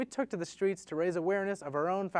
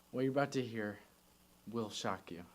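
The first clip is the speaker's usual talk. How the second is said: low, hushed dramatic teaser; clickbait video narrator; 8 semitones lower, 9 dB quieter than usual. Acted. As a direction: build suspense like a clickbait intro. Dramatic reveal of recording.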